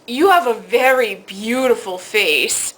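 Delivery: slow, lightly imitated Italian accent. Italian counterman flatters customer, slow imitated Italian accent. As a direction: pay a slow compliment as an Italian charmer. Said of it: "in this very thick Italian accent".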